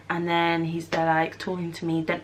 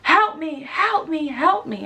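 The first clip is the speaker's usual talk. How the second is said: higher, mock desperate help me; imitating cries for help; 9 semitones higher, 4 dB louder, slower than usual. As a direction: echo his panicked calls, not full volume. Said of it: "I started hearing".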